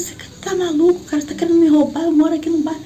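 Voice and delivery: shouting at a neighbour who sided with the thief; indignant retold shout. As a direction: protest loudly, outraged. Shouting at the neighbour helping robber.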